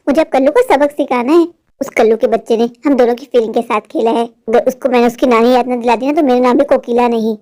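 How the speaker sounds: low, scheming mother muttering revenge; a plotting mother, voice pitched low. Acted.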